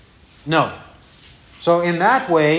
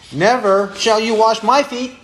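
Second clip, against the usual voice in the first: exclaimed; 4 semitones higher than usual. Acted. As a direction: raise the voice on the protest. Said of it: "Now he exclaims it".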